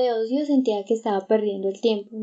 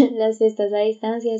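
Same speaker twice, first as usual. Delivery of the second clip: laughing; 5 dB louder than usual. Real, not acted. Echoing friend's joke, laughing.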